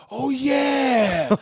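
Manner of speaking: high laughing oh yeah; laughing mock reply. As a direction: toss it off through a laugh. Voicing the relatives' reply.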